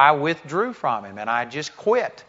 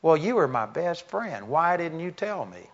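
disappointed; 3 semitones higher, 3 dB quieter than usual. Retold or imitated. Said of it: "you could tell he was disappointed".

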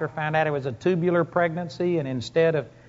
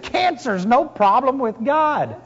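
bold retold reply; 7 semitones higher, slower than usual. Retells his own bold reply to the crying woman.

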